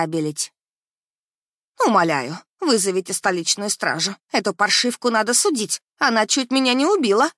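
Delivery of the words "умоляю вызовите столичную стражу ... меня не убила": rising from a plea to a shrill scream. Acted. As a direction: build to a furious yell. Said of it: "орала всклокоченная Карлота".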